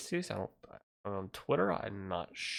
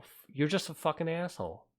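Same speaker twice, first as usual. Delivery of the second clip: angry rant; 5 semitones higher than usual. Real, not acted. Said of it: "my Elizabeth Warren rant".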